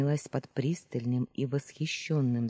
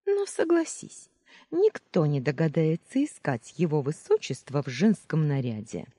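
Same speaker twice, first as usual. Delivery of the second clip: shouting from afar; 4 dB louder than usual. Acted. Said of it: "прокричала".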